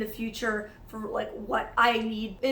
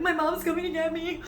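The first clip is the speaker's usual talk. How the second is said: higher-pitched tearful whine; whimpered, hammed-up tearful announcement; mock crying; 6 semitones higher than usual. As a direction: imitate talking through tears. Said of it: "And I'm still crying".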